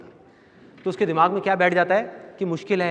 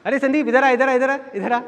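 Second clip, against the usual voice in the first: high, loud call across the room; aunt calling out; 7 semitones higher, 4 dB louder than usual. Retold or imitated. Aunt calling young Sandeep over, high and loud. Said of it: "मेरी मामी जी आवाज़ लगाती थी".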